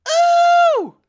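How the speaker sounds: loud high excited ooh; a sudden thrilled squeal; excited whoop. Real, not acted. Excited by prime Iverson idea.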